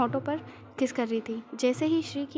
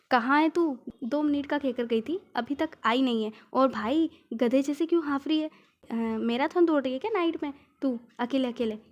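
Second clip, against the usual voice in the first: teasing call; 3 dB louder than usual. Acted. Friend teasing on phone.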